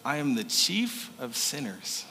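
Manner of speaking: soft, slow confession; hushed admission of guilt; humble confession. Retold or imitated. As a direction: lay it down humbly, slowly. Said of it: "label he gave himself".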